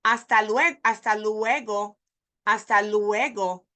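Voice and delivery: luego split into "loo-WAY-go"; learners' mispronunciation. Retold or imitated. Teacher imitating many learners, wrong split vowels. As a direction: say luego in three syllables. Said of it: "I hear a lot of people say".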